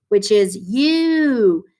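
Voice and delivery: U stretched out slowly and loud; drawn-out long U. Shown as a demonstration. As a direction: hold the U long, like it's screaming its name. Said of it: "the U is going to scream its long name".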